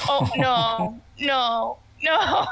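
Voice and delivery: chuckling mock protest of a husband; a light, laughing no-no-no. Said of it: "He's like".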